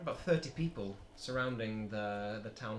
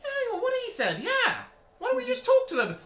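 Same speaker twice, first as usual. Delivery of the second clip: high, loud rowdy cheer; crowd shouting; 10 dB louder than usual. Acted. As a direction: shout agreement as a mob. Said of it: "the rest of the crowd goes".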